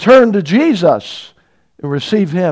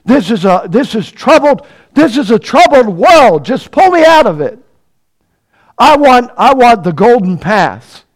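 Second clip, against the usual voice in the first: mock plea building from level to much higher and louder; imitating complaining prayer; 5 semitones higher, 6 dB louder than usual. Preacher mimics a believer pleading with God, building to a loud mock whine. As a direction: act out the whiny demand to be pulled out.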